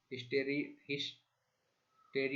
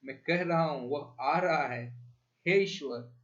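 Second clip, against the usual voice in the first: shouting; 4 dB louder than usual. Acted. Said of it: "चीखता हुआ".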